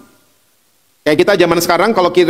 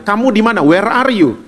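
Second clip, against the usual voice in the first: gentle searching father, slightly raised pitch; bapak cari anaknya; 3 semitones higher than usual. Acted. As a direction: call like a father seeking his child. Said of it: "Dia seperti bapak yang cari anaknya". (seperti bapak mencari anak)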